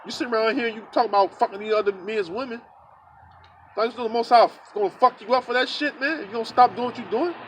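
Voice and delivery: mildly heated replay of a confrontation; riled up. Retold or imitated. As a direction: tell him off, how dare he. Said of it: "it riled me up".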